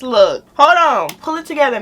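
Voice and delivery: high, tearful self-scolding; loud, high, struggling for composure; fighting back tears. Real, not acted. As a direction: try to pull yourself together mid-cry. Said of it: "I'm messing up my makeup".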